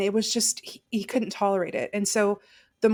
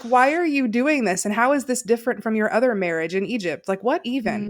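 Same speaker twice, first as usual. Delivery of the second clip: incredulous; 3 semitones higher, 4 dB louder than usual. Retold or imitated.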